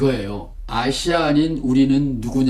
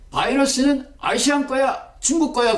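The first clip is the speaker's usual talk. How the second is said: higher, blustering mock Trump claim; higher mock Trump blaming Asia; imitating Trump; 8 semitones higher than usual. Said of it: "트럼프가".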